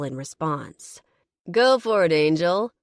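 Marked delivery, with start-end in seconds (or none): 1.5-2.7 shout. Acted. Man in the crowd shouts encouragement to Angel. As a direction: whoop him on from the crowd. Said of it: "one of the other men shouts".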